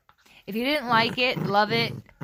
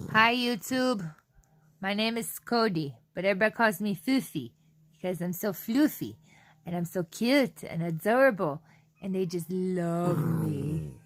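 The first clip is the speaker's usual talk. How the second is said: voicing the dog. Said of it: "Say hi to the YouTube".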